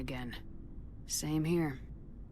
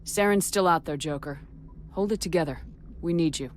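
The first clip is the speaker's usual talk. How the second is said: firm rallying order; 5 dB louder than usual. Acted. Commander rallying shaken pilot.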